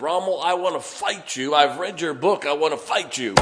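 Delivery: furious general yelling at his enemy; angry shout. Retold or imitated. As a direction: shout the challenge from the turret. Patton shouting at Rommel from tank.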